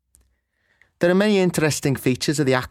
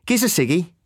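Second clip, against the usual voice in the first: Scouse "Giz a ciggy"; casual Scouse slang; Scouse accent; 6 semitones higher than usual. Shown as a demonstration. A teacher contrasting Scouse slang with standard English, in Scouse. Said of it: "The use of giz instead of give".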